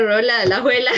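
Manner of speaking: laughing, close to tears; a real moved laugh; a laugh with tears behind it; teary laugh. Real, not acted. Recalling her humble origins.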